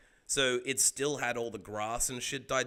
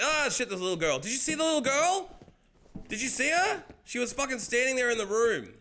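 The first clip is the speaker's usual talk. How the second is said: startled; 12 semitones higher, 6 dB louder than usual. Real, not acted. Startled by ghost girl in game.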